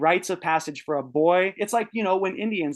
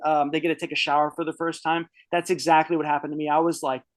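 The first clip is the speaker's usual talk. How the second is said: ordinary delivery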